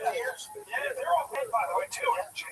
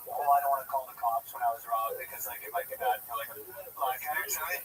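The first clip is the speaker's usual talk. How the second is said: mock woman; 11 semitones lower, faster than usual. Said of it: "the women will be like".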